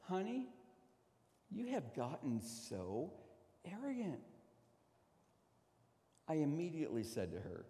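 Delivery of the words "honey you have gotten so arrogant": wife's gentle rebuke. Retold or imitated. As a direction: quietly break it to them, pausing before the last word. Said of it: "looks at me right into my eyes and says".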